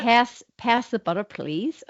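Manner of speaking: Australian trying American; attempted American accent. Shown as a demonstration. Student showing the dialect coach, attempted American accent. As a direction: have a tentative go at an American accent. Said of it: "So American first for you".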